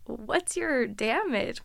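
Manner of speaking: slow whispered what's your damage; hushed, incredulous question; whispered disbelief. Real, not acted. Incredulous reaction.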